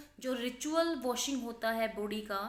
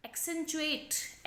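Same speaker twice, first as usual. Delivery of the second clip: accentuate drawn out very slowly, higher; slow stretched word; 5 semitones higher, much slower than usual. Shown as a demonstration. Teacher introducing new word, slow and raised. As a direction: stretch accentuate so students catch it. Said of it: "accent से बना है".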